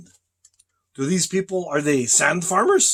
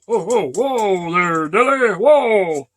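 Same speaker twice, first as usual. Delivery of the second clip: calling a horse; 3 semitones higher, 4 dB louder, slower than usual. Retold or imitated. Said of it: "They go".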